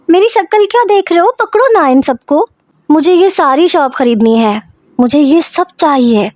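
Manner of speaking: put-on bossy little girl grabbing everything in the shop; demanding girl.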